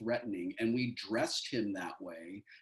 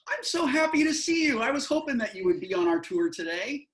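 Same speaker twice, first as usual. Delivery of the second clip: creepy cheerful host; 12 semitones higher, 6 dB louder than usual. Acted. Greeting as his creepy character.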